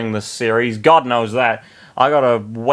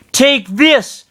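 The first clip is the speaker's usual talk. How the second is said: higher, punchy battle cry; attack cry; 13 semitones higher, 4 dB louder than usual. Acted. Roy slams Bernard, battle cry. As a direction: strike with a shout.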